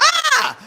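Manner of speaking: a sudden high-pitched scream of fright; startled scream. Retold or imitated. Startled high scream at mom waking. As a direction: shriek like you just got spooked. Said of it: "I screamed. I was like".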